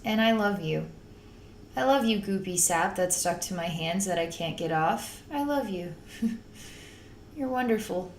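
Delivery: soft, loving reassurance; tender. Retold or imitated. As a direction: hush it lovingly to the goo. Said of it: "and we say".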